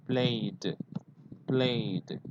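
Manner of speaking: played said slowly with a plain d ending; slow model of played. Shown as a demonstration. Teacher models played slowly for students. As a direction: model played for the class, one syllable. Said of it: "So you say".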